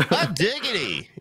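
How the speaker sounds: laughing. Real, not acted. Laughing after accent bit.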